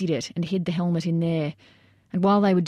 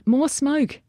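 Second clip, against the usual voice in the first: high, loud shout; yelled order; 8 semitones higher, 3 dB louder than usual. A narrator's reading. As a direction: demand it across the roof. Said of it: "Jager yelled".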